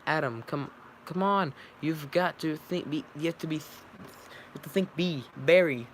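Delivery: a hint of a pep-talk yell; mock shout. A narrator's reading. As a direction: read Adam's shout with a lift. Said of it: "Adam shouts".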